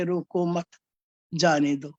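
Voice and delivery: "रोको मत" as one unit, break, then "जाने दो"; group "रोको मत" together, pause, then "जाने दो"; pause after मत. Shown as a demonstration. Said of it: "जब विश्राम बदले".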